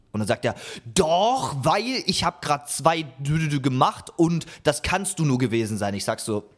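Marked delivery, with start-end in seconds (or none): 0.9-5.9 mock yell, raised at the first word; imitated angry shouting. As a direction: imitate an accuser snapping back, only half shouted. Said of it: "ich werde da richtig angeschrien".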